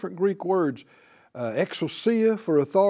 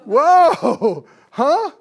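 high, laughing cries of disbelief; preacher voicing the amazed crowd, laughing astonishment; astonished crowd; 7 semitones higher, 8 dB louder, much slower than usual. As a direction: gasp it out like the crowd can't believe it's happening now. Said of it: "And the people said".

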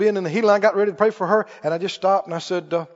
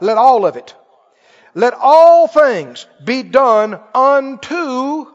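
raised, punchy preacher delivery; emphatic preaching; 3 semitones higher, 5 dB louder than usual. Real, not acted. Preacher driving a scripture home to the congregation, emphatic preaching.

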